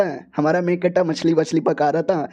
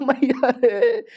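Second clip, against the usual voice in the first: put-on higher pained groan of a suffering girl; 5 semitones higher, much slower than usual. Girl in agony, a pained high cry. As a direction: cry out to mother in distress, pitched up.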